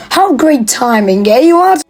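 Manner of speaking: lightly imitated cartoon line, lifting high at the end; Wallace and Gromit catchphrase. Narrator quoting a cartoon to viewers, lightly imitated catchphrase. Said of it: "steal that from Wallace and Gromit".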